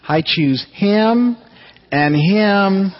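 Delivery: put-on slow, high little old lady voice picking three men; a shy lady at church picks him, and him, and him, slowly and high; timid old lady. Old lady's punchline choosing hymns.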